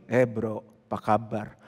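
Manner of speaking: a friend who talks only in canned lines, in a low, soft, robotic voice. Pretend. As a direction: greet like a machine reading a script. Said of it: "kita punya temen ngobrol cuma gini".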